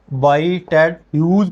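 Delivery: "बाई टेड ह्यूज" said as three distinct words; pronunciation demo. Shown as a demonstration. Teacher showing students how the poet's name is read, "बाई टेड ह्यूज" as a pronunciation demo. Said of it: "पढ़ना है इस लफ्ज़ को".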